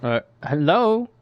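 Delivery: loud, slow call into the helmet mic; booming hello, unaware of the volume; too loud. Acted. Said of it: "man, he talks really loud".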